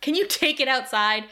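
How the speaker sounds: mildly exasperated retold complaint; a touch of irritation, acted out; super annoyed. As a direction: imitate an irked roommate, only lightly. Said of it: "super fucking annoyed".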